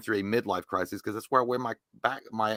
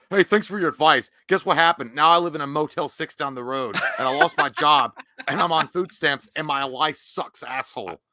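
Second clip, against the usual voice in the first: mock bitter rant; 5 dB louder than usual. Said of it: "and then you're like".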